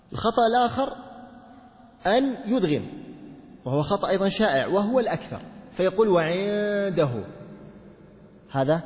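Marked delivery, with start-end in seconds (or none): 6.1-7.1 وعنده very slow, نون merged into the دال with no trace; faulty merged reading of وعنده; wrong idgham. Shown as a demonstration. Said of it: "هذا إدغام".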